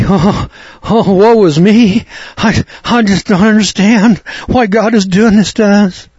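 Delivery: high, whining mock lament; mock self-pity. Preacher mimicking listeners who cry on their beer, mock wailing. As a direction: wail it like a hammed-up sufferer. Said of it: "cry on our beer and say".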